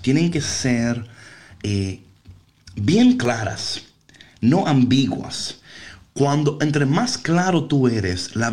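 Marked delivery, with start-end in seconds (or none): 2.8-5.6 slow emphasis. Real, not acted. Emphasizing clear goals.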